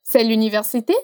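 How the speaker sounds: "C'est l'université" climbing at the very end; rising question intonation. Shown as a demonstration. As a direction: start low, swing up on "université". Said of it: "A entonação vai subir".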